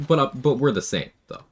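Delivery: high, smug billionaire pitch voice; smug wealthy tycoon. Retold or imitated. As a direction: sell the dream like a rich tycoon. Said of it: "My billionaire impression".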